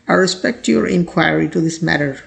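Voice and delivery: slow teacher's example reading; slow example sentence. Shown as a demonstration. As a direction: read slowly as a model.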